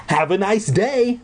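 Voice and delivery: airy, offhand counselor; camp counselor voice. A narrator's reading. Buddy cheerfully dismissive.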